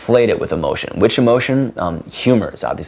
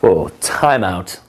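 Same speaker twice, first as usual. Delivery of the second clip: mock halt; much slower than usual. Shown as a demonstration. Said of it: "the timeout is basically".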